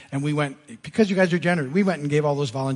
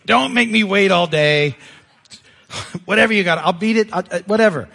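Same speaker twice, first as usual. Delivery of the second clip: loud hammed-up kid pleading for it to be over; mock kid pleading; 4 semitones higher, 8 dB louder than usual. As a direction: beg like a kid who can't stand waiting. Kid pleading, retold comedic.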